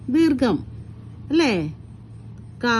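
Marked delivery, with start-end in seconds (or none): 2.6-2.8 "കാ" with its vowel held long; drawn-out vowel. Shown as a demonstration. Teacher showing pupils why it takes a long-vowel sign, drawn-out "കാ". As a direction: stretch out the vowel of "കാ". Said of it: "നീട്ടി പറയുമ്പോ".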